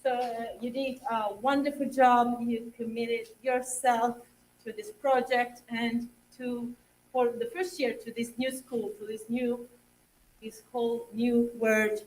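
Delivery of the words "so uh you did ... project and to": fighting back tears while thanking; emotional thanks, close to crying; choked up. Real, not acted. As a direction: voice catching with real tears. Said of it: "Oh, you're making me emotional".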